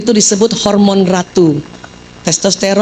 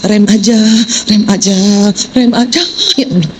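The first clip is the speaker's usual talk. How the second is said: inner plea. Retold or imitated. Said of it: "dalam bilang hati".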